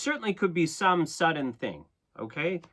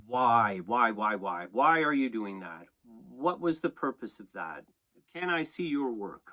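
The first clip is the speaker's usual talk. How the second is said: insistent questioning; 2 semitones lower than usual. Acted. Acts out questioning someone's work.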